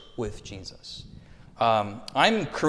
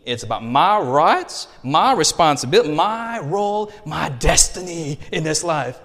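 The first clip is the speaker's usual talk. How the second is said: louder, climbing higher on "my role"; mock American self-assertion; 3 semitones higher, 6 dB louder than usual. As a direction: puff up like a proud individualist. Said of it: "And I'm thinking".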